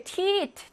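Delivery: 티트 with a short, unstressed e; 티트 slow, first vowel short, stress at the end. Shown as a demonstration. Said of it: "에는 짧게".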